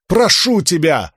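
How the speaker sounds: медленно, высоко умолять; умолять изо всех сил; мольба. A narrator's reading. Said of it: "взмолилась она". (Рисн умоляет чудище, медленно)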